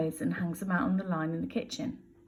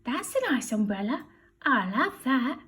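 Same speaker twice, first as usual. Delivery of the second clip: burglar voice; 5 semitones higher than usual. Acted. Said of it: "a voice says".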